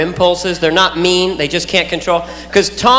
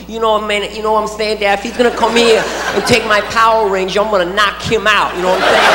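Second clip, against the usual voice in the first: Mike Tyson lisp. Retold or imitated. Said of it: "sounds a little bit like Mike Tyson".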